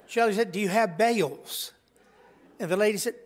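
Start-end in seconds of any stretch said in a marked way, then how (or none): 0.5-1.7 imitating a Southern twang on "bales"; Southern accent, bells stretched into bales; precious Southern accent. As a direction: ask it sweetly with Southern vowels. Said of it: "precious southern accent".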